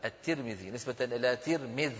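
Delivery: الترمذي and ترمذ with i in both syllables, "Tirmidh"; kasra on ta and mim. Shown as a demonstration. Teacher explaining the name's origin, "Tirmidh" with two i vowels. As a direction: say ترمذ as "Tir-midh". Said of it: "بكسر التاء وكسر الميم".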